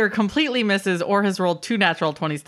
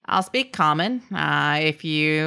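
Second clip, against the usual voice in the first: Matthew McConaughey. Acted. Gnome haggles with the party, lightly Texan like McConaughey. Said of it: "switches to Matthew McConaughey accent".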